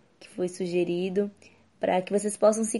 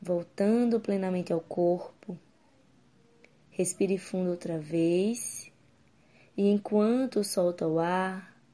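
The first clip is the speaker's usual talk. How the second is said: guided meditation. Acted. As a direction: guide the listener gently into calm.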